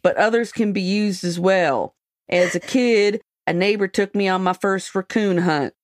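lightly put-on rural Montana accent. Magazine excerpt read to friends in a mock Montana accent. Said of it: "I'm gonna do it in an accent".

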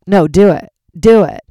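loud goading insistence; mock insistent yell; pushy shout. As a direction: shove the mic and push hard. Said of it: "was like".

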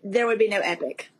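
holding back tears, voice trembling a little; shaky sigh. Real, not acted. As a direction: voice wavering with emotion, slow. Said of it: "I get emotional thinking about things like that".

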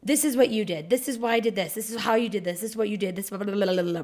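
mock spewed-out list running into blah-blah; spewing. Imitating how partner's argument sounds to her, spewed out. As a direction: rattle it off as droning, imitated accusations. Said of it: "like, spewing".

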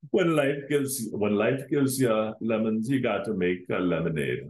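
put-on a weak, hammy Jamaican accent; badly faked Jamaican accent. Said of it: "That was a horrible one".

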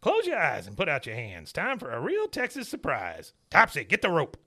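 lightly voiced sly dad; Cotton scheming. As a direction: coax then order. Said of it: "Cotton comes up and goes".

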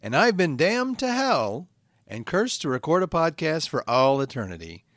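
measured, declaimed show opening; podcast intro. Acted. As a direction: recite your solemn intro from hell. Host recites show intro.

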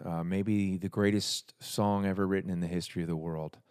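dry mock boast about his own song; deadpan overclaim, tongue in cheek; sarcastic. Real, not acted. Songwriter introducing his Thanksgiving song, dry sarcasm. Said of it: "I'm being sarcastic".

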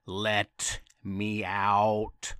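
slow, low, drawn-out wail; creepy mummy wail. Acted. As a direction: moan it like a trapped mummy. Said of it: "in a super creepy voice".

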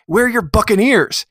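put-on high-pitched old lady question. Old lady questioning a little pirate, high-pitched. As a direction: ask it high, as the lady at the door. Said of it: "She's like".

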